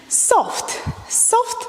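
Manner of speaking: cued softly, the second Soft lifted high. Shown as a demonstration. Dance teacher cueing a soft move, hushed. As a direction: let soft drift up and out. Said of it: "soft movement".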